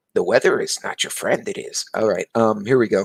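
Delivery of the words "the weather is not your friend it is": croaky, toad-like creature voice, words in flipped order. With stuffy sinuses, the speaker jokes to the audience in a Yoda voice. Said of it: "I almost sound like Yoda".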